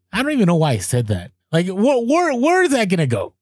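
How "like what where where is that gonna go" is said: higher, rising disbelief at himself; baffled at his own threat; incredulous. Real, not acted. Laughing at what he told the clerk, rising disbelief.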